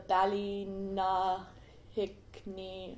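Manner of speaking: "Ballynahickney" slowly, syllable by syllable; unsure pronunciation. Real, not acted. Visitor attempting an Irish place name, "Ballynahickney" slow and hesitant. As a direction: feel your way haltingly through "Ballynahickney". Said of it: "do not know how to pronounce".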